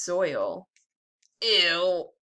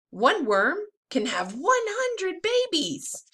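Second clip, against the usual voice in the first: worm's answer; 10 semitones higher, slower than usual. Acted. Worm answers the question.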